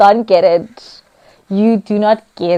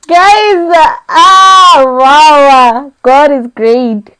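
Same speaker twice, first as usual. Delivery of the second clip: joyful shout; 3 semitones higher, 6 dB louder, much slower than usual. Real, not acted. To her viewers at the unboxing, real joyful shouting. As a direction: shout it out, overwhelmed with joy.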